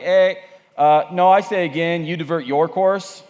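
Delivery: lightly put-on Canadian radio operator; Canadian accent. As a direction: push back in a mild Canadian accent. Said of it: "The Canadian comes back and he's like".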